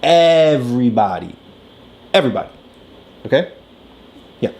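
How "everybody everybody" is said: "Everybody" stressed, repeated for weight; emphatic repeat. Shown as a demonstration. Parent driving the point home, stressed repeat. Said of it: "that everybody messes up".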